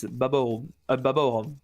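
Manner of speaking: Baba Rum said the French way, Baba O Rum with the O sound; French pronunciation. Shown as a demonstration. Caster showing the French way to say Baba Rum. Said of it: "in French, it's".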